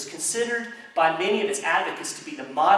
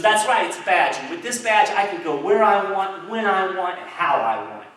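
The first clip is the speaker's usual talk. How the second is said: loud, puffed-up official, higher pitched; indignant; 3 semitones higher, 5 dB louder than usual. Acted. Federal agent boasts to the rancher about his badge, indignant. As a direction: throw your authority around, hammering each phrase. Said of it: "federal agent gets all indignant".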